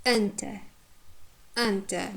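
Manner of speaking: "Enter" said EN-ter with schwa ending; careful repeated model "Enter, enter", strong first syllable; first-syllable stress. Shown as a demonstration. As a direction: hit EN in "Enter", let ter go weak. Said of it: "first syllable is stressed".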